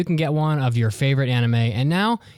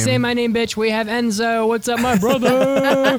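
hyped-up intro; 7 semitones higher, 3 dB louder than usual. Acted.

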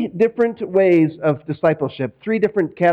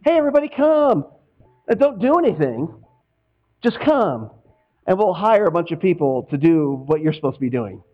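cozy church host. Retold or imitated. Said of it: "The cozy culture is real high invitation".

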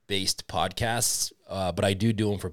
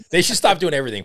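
laughing; 8 semitones higher, 7 dB louder, faster than usual. Real, not acted. Joking about politicians.

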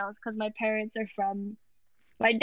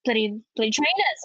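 put-on Welsh accent; 3 dB louder than usual. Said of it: "that's the best Welsh accent I can do".

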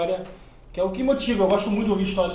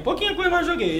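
laughing it off, pitched high; sheepish laugh; 10 semitones higher than usual. Real, not acted. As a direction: admit it through a laugh. Admite rindo, meio sem graça. (admitindo rindo, meio sem graça)

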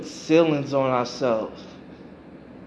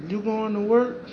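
put-on child's question; 7 semitones higher than usual. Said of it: "He said".

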